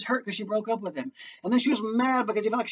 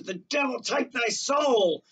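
angry curse; 5 semitones higher than usual. Acted. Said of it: "Laertes comes out of the grave and says".

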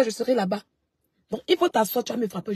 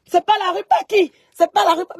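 high, louder mock screech of the rival; mock her cry back at her, higher; 7 semitones higher, 6 dB louder than usual. Streamer mimicking the woman who corrected her, mock high cry. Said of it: "elle crie".

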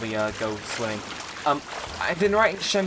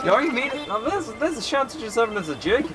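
higher, hammed-up Irish sailor; bad Irish pirate brogue, briskly instructing; awful Irish accent; 5 semitones higher than usual. Castaway pirate sending the player out searching, awful Irish accent. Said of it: "very awful accent".

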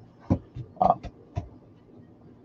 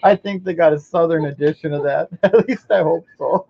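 put-on Southern accent; 10 semitones higher than usual. Mocking Southern talk.

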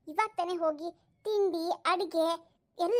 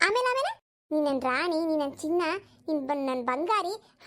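mocking sweet talk. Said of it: "ಏನೇನೋ ಭಾಷಣ ಮಾಡಿದ್ರಲ್ಲ".

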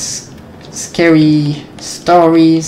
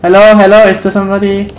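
loud nervous call into the dark; 4 semitones higher, 5 dB louder, faster than usual. Real, not acted. Player calling into empty building, loud. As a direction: call out to anyone there.

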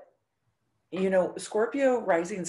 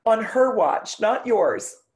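louder, higher booming reassurance with a laugh in it; dad's loud teasing; 5 semitones higher, 7 dB louder, slower than usual. Retold or imitated. Daughter voicing her dying dad teasing her, loud and pitched up. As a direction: boom it out like a big dad brushing off her fear. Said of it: "then he said his wife's name".

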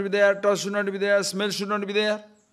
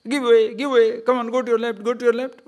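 raised, higher pretend yell of give way; mock shout at a boat; 4 semitones higher than usual. Rower yelling at an empty boat, mock shout. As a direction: shout the boat out of your path, half in jest. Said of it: "will you shout at it".

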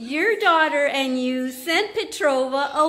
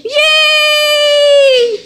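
high, loud yay shout; loud cheer; 10 dB louder than usual. Real, not acted. Celebrating the new member, loud high yay. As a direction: shout for joy.

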